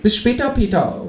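high-pitched cheery kangaroo call; high talking-animal farewell. A narrator's reading. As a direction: call a goodbye in a high creature voice. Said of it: "ruft das Teutelbier".

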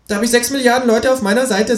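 high, clipped kangaroo answer. Acted. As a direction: toss it off as the kangaroo. Reads the kangaroo's lines.

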